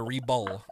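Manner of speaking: "Rebull" said as Rebel and Reba blended, ree-bull; "Rebull" with a falling tune; blended name. Shown as a demonstration. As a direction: mash the names into "Rebull". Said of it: "mix 'em together".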